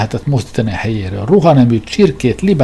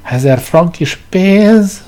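much higher, louder, very slow sob; sobbing; 8 semitones higher, 5 dB louder, much slower than usual. Acted. Editor sobs at the king's small advance. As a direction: drag it out in a mock wail. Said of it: "zokogta Szapjanin".

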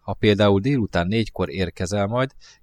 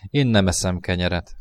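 usual speaking voice

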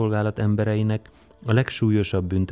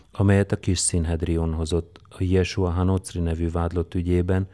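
usual speaking voice

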